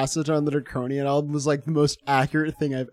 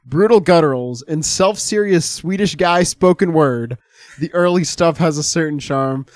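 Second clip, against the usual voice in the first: reading a quote aloud; 2 semitones higher, 6 dB louder than usual. Acted. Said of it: "I have a quote here".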